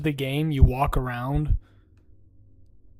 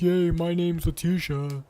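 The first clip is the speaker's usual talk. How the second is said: mocking Letitia.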